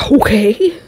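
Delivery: drawn-out whispered okay; imitating bemused adults. Adults reacting to the angry kid, whispered imitation. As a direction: whisper it slowly like a wary onlooker. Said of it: "all the adults looking at me like".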